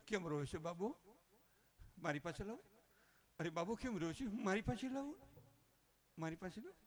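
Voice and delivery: put-on cooing to a crying baby, rising endings; lightly voiced womanly fussing; womanish man. Man fussing like a woman over crying baby, light womanish coo. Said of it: "એ બાઈ જેવો થઈ જાય".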